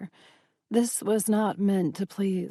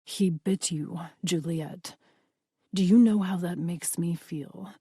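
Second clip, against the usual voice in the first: silky menace; 2 semitones lower than usual. Acted. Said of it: "his voice silky and menacing".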